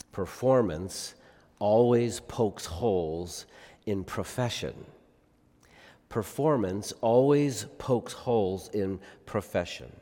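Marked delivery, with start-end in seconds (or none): 0.1-4.9 slow, each word set apart; slow emphatic delivery. Shown as a demonstration. Preacher to congregation, slowly driving the point home. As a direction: let it land word by word, slowly. Preacher repeats key line.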